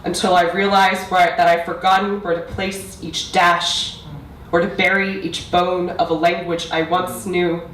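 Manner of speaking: measured recital with long pauses; spoken-word poetry. Acted. Poet addressing mother about a lost language, measured spoken-word delivery. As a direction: let each line land before the next. Recites own poem to audience.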